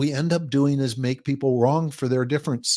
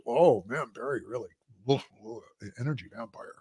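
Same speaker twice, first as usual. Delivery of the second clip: much softer, grumbling under the breath; muttered aside; 3 semitones lower, 8 dB quieter than usual. Retold or imitated. Complaining to a best friend after leaving Barry, softly muttered. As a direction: mutter it privately so Barry can't hear.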